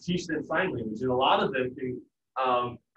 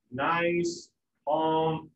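ordinary talk

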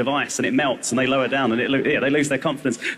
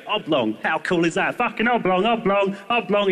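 put-on a child gleefully chanting oblong; childlike glee. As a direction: repeat oblong like a new toy. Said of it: "you go".

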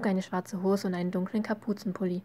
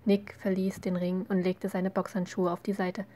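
plain reading voice

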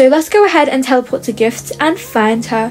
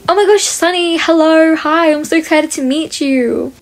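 gushing, raised-pitch fake greeting; pretend fan excitement; 4 semitones higher than usual. Disguised player greeting the scammer, putting on excitement. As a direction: play the starstruck fan, pitched up.

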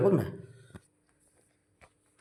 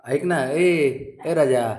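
drawn-out pleading; 3 semitones higher, much slower than usual. Real, not acted. Father pleading with sulking child.

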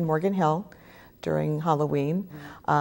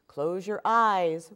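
warning; 2 semitones higher, much slower than usual. Acted. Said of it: "warns the pirate mommy".

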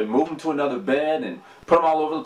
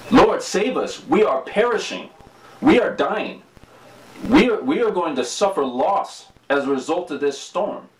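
higher, pleading panic; disciples crying out; 4 semitones higher than usual. Retold or imitated. Panicked disciples begging Jesus during the storm, raised pleading cry. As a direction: cry out for rescue in a mild panic. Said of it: "they're crying out to Jesus".

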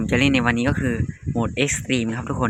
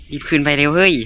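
louder, urging it to go faster; urgent hurry; 2 semitones higher, 5 dB louder than usual. Real, not acted. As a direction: push the character to hurry. Rushing the game character. (เร่งเสียงดังให้รีบ)

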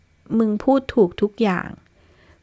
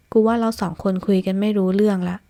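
plain reading voice

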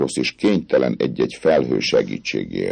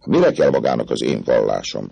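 mocking, amused; 3 semitones higher, 4 dB louder than usual. Captain mocking the girl's wish, amused. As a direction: scoff through a grin. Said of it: "harsányan felkacagott".

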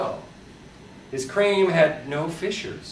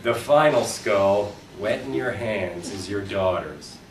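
hushed ending; 9 semitones lower, 5 dB quieter than usual. Acted. Reader closing the book with an ominous hush. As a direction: let it sink away into quiet. Grim epilogue, fading.

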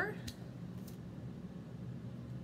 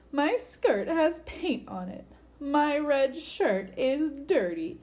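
mock sob; 4 semitones higher, 4 dB louder, slower than usual. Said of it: "sobbed Twirly".

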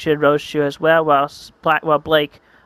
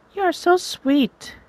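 much higher, slow falsetto with a lean on so; sweet girl voice; 13 semitones higher, slower than usual. Acted. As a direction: swoon it high and slow.

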